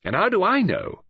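high bitter repetition with a hollow laugh; father's bitter outburst about his daughter. A narrator's reading. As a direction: throw it out bitterly, laughing without joy. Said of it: "suddenly bitter".

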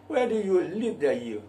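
proud accented English; local accent English. Shown as a demonstration. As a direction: demo English with Indonesian flavour. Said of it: "bagaimana kalau saya ngomong".

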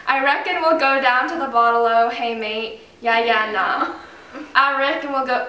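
put-on Aussie phrase slipping into an American Southern accent; attempting Australian but it comes out Southern. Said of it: "oh no, that's Southern".

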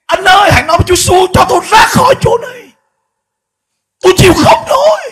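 high, loud anguished plea; damned pastor begging Daniel, screaming in anguish; crying out. Retold or imitated. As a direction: wail for rescue from the flames. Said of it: "kêu khóc".

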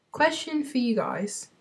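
hushed, voiceless aside; soft confidential whisper. Pretend. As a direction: whisper it to the viewers.

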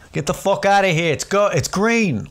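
high, exasperated cop outburst; hammed-up fed-up traffic directing; mock traffic cop. Cop shooing drivers through the intersection, mock exasperated. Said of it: "put cops to go".

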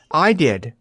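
breathless. A narrator's reading. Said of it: "answered breathlessly".

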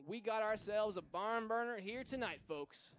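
put-on Southern accent, folksy announcer. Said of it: "I don't know why I'm talking in a Southern accent".

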